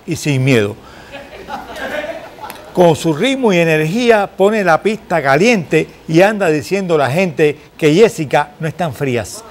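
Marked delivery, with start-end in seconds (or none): 2.7-9.4 rhymed verse introduction with lilting emphasis; presentación en verso. Acted. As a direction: recite the intro in measured, rhythmic phrases. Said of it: "Yo la presento en verso". (presentación recitada en verso)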